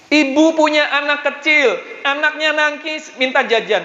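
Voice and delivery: high-pitched, driving sermon delivery; fervent preaching. Acted. Preacher urging the congregation to ask God boldly, fervent preaching. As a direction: preach it urgently, voice pitched well up.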